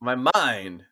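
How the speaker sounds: joking fake New Mexico accent; put-on New Mexico accent. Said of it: "I just changed my accent like this".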